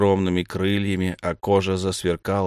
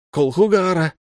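high, loud summons; a ruler demanding an answer; sharp demanding call; 9 semitones higher, 5 dB louder than usual. A narrator's reading. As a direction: bark the name out. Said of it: "резкий требовательный голос Раванны".

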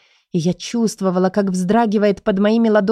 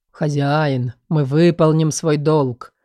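slow, lower, otherworldly spirit voices; ghostly chorus of spirits; 3 semitones lower, slower than usual. A narrator's reading. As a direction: sound like a hum of many dead voices. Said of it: "слышала гул голосов".

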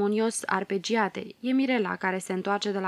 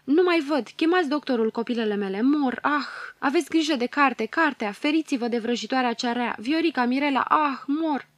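louder, strained, fighting for breath; dying gasps; 4 semitones higher, 4 dB louder than usual. Acted. Dying mother calling to her daughters, gasping and strained. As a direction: push each phrase out as life slips away.

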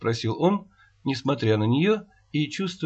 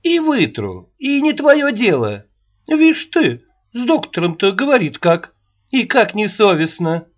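put-on high, loud indignant old woman; shrill nagging grandma; 6 semitones higher, 4 dB louder than usual. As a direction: snap back like a cross old nanny. Аннушка retorts angrily.

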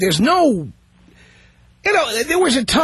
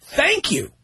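curt thanks; 3 semitones higher than usual. Shown as a demonstration. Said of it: "here's what you say".

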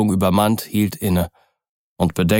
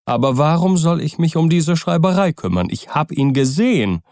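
put-on agitated old servant; 8 semitones higher than usual. A narrator's reading. Poole, servant's voice.

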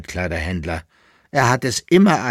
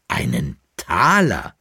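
slow, lowered exclaim of Einen Taler with the stress on Taler; exclaiming, astonished; 4 semitones lower than usual. Acted. Dealer sees the boy's coin, slow astonished exclaim. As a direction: weigh the words Einen Taler, awed and slow. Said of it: "rief der Altkleiderhändler".

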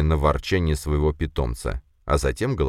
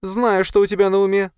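high, louder grumbling spider voice; the spider familiar grumbling, she knows what he's thinking; 5 dB louder than usual. Acted. Spider grumbles at her master, high and loud. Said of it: "заворчала паучиха".

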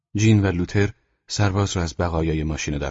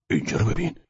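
higher pitch, rising at the end; surprised; 6 semitones higher than usual. A narrator's reading. Jean finding something on the wounded soldier, surprised. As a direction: draw attention with mild astonishment. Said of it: "جین با تعجب گفت".

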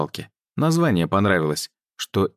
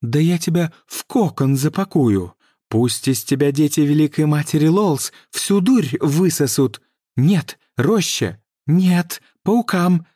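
high, loud menacing rant; furious threat; 9 semitones higher, 5 dB louder, slower than usual. Acted. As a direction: threaten to feed her to spiders. Priestess threatens the mermaid.

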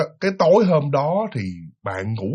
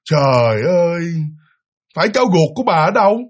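mock ghost voice; 3 dB louder than usual. Second voice, man, claims child.

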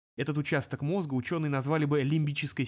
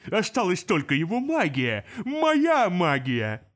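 slow, louder demon shout; 3 semitones higher, 5 dB louder, slower than usual. Acted. Demon spitting at the imp, shouting. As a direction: bark it out.

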